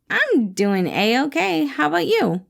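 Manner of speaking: forced cheer. Acted. Remus covers his mood for his boss with forced cheer. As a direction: fake being fine.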